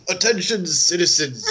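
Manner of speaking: booming paladin announcement. Acted. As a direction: proclaim it like a lawman. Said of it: "Let's hear some paladin voice work".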